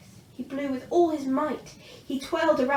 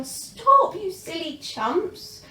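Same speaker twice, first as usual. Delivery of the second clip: much higher, louder stop, then slower; shouting stop; 6 semitones higher, 6 dB louder, much slower than usual. A narrator's reading. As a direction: call out to halt the fight. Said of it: "stepped forward crying".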